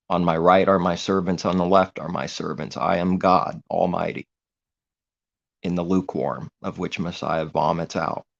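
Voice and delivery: loud, puffed-up self-proclaimed God; boastful false god. Retold or imitated. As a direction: proclaim yourself God with mocking arrogance. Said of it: "which creates an image in the sky".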